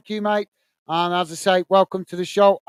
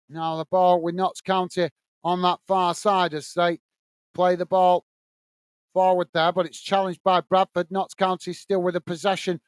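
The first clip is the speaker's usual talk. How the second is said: steady live match commentary; play-by-play; 3 semitones lower than usual. Acted. Commentator calling the match for stream viewers, play-by-play. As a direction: call the action as it unfolds.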